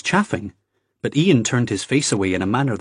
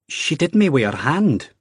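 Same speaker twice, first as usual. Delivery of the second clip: blurted; 6 semitones higher than usual. A narrator's reading. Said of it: "Ian blurted".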